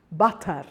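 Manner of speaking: water begun almost with a B, "bater"; Spanish-style water, W thickened to B; heavy B-like W. Shown as a demonstration. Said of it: "it's almost like a B".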